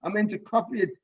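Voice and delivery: hammed-up alarm over a lost paragraph; panicky user. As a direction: play the flustered user who hit delete. Teacher acts out a panicking user.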